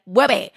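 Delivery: "Whoopi" said as "Wooby", W for R; Tiny Chef. Retold or imitated. Little chef's name for Ruby, "Whoopi" with a W in place of R. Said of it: "because of Tiny Chef being like".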